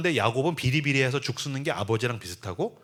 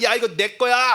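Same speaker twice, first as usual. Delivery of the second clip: higher and louder, pushy grab; bullying claim; 6 semitones higher, 5 dB louder than usual. Retold or imitated. Local strongman claiming Isaac's well, loud and pushy. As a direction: bark it like a thug seizing property.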